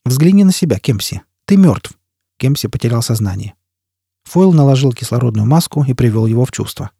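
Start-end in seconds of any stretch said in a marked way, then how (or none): 0.1-2.0 taunting shout. Acted. Foyle taunting the screaming man.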